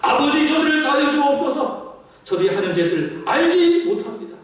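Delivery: acted prayer for forgiveness. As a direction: imitate an earnest intercession, opening high. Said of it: "그들을 위하여 기도한 겁니다".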